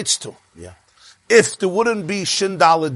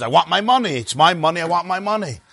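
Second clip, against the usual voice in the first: higher-pitched mock customer tantrum; insistent angry demand; 4 semitones higher than usual. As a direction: play an irate customer demanding cash. Irate customer demands money in story.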